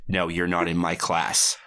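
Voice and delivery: low, slow imitated brush-off; deadpan putdown. Girl looking him dead in the eye, deadpan. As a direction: shut it down coolly and slowly. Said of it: "looks him dead in the eye".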